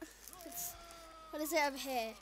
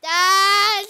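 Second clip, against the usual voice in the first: frantic shout; 6 semitones higher, 8 dB louder, much slower than usual. Real, not acted. Monster chasing in game.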